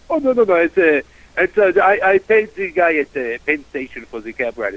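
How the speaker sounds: lightly imitated French tourist; French accent. French passenger insisting to the driver he paid, French accent. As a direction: protest in a mock French accent. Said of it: "uh, French guy".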